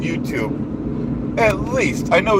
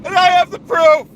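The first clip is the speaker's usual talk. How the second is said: blustering self-important boss voice; pompous ranting persona; 7 semitones higher than usual. Acted. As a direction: puff up like a bragging strongman. Holds the Duke persona rant.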